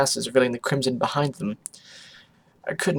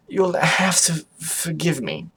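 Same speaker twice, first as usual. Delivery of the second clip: slow, halting apology; stammering; 4 semitones higher, slower than usual. Acted. Octavia overwhelmed at the news, mildly stammering. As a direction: falter through the apology. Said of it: "I stammered".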